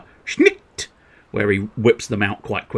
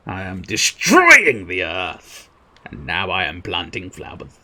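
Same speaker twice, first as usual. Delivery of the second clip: slow, mock-grand villain boast, lightly voiced; mock-menace a bit of gardening; slower than usual. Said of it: "you classify it as destroying the earth".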